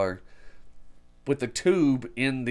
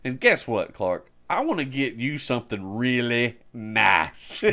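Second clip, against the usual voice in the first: quoting Eddie. Retold or imitated. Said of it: "he's like".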